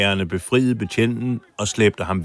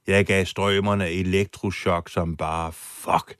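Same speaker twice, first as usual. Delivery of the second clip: mild boast; slower than usual. Retold or imitated. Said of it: "pralede han".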